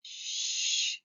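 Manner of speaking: whispered shh; soft whispered shush; hushing. A narrator's reading. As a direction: hush her gently. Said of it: "said Louise".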